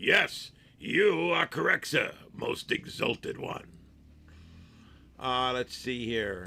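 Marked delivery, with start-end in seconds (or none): 0.0-3.7 put-on very old, dim-sounding announcer voice. Doing the voice someone asked for: old, ignorant Ed McMahon voice. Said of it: "like a really old and really ignorant Ed McMahon when you do the, the voice".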